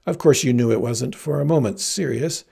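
affected, hammed-up graciousness; fanciest tone. Heroine explains away her joke to the farm boy, fancy and affected. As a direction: put on grand, fussy airs. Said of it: "said in her fanciest tone".

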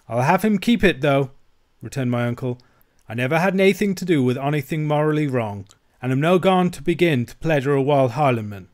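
put-on broad Scots, aggrieved old uncle; uncle protesting.

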